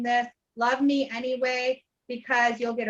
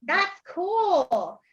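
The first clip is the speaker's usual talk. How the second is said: delighted surprise; much slower than usual. Retold or imitated. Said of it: "And I went".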